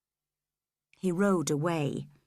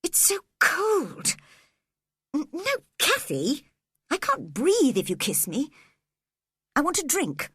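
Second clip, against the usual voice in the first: put-on sickly boy; 7 semitones higher than usual. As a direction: plead weakly like a feverish child. Sickly Linton complains.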